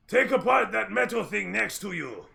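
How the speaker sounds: high, loud boss shout. Acted. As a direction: bark the order loudly. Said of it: "Furush simply shouts out".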